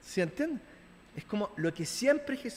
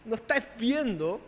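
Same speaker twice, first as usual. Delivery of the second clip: blunt rebuke; 4 semitones higher than usual. Retold or imitated. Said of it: "en pocas palabras".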